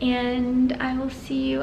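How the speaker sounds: drowsy, slow and fading; barely awake, winding down; nodding off. Real, not acted. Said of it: "literally so tired I'm falling asleep".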